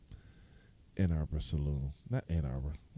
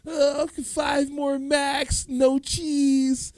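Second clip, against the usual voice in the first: calling out orders; 8 dB louder, much slower than usual. Retold or imitated. Imitating the McDonald's order call.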